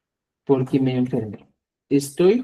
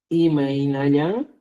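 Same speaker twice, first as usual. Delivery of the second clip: drawn-out syllables, rising at the end; slow teaching pace, left hanging; slow dictation; slower than usual. Shown as a demonstration. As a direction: dictate slowly, holding the last syllable. Dictates the Quechua question while writing.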